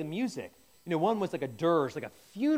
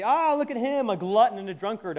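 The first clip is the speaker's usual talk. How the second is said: scornful, higher and louder jeer; mocking sneer; 4 semitones higher, 5 dB louder than usual. Crowd sneering at Jesus eating with sinners, mocking. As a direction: sneer at him like a hostile crowd.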